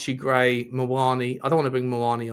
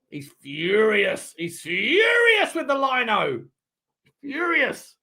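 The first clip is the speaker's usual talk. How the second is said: mock commentator; 8 semitones higher, slower than usual. Mock dramatic repeat of commentary.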